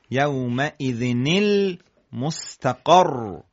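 المستقر ending on a firm doubled R; measured model reading, "yawma'idhinil" then "mustaqarr"; stressed final consonant. Shown as a demonstration. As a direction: keep the doubled R at the end of المستقر. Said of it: "شدت را باقی موند روی حرف آخر کلمه".

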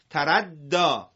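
تردا read slowly, ending in a long a sound; drawn-out demo; slow model reading. Shown as a demonstration. Teacher slowly models the word for the class. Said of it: "تردا ... ناخواناست".

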